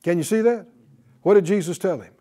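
usual speaking voice

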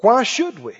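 usual speaking voice

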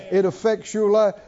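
normal talking voice

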